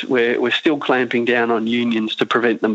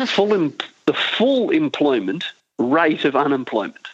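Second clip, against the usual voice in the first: slow and deliberate. Shown as a demonstration. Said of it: "I'll say it slowly and I'll say it twice".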